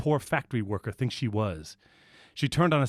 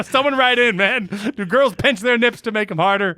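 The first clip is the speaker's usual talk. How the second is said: excited; 10 semitones higher, 8 dB louder than usual. Real, not acted. Laughing outburst at the story.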